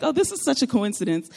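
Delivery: lightly joking, pitch lifted; jokingly. Retold or imitated. Woman inviting old acquaintances to lunch, jokingly. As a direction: toss it out as a playful remark. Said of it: "kind of jokingly".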